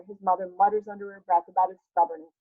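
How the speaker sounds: usual speaking voice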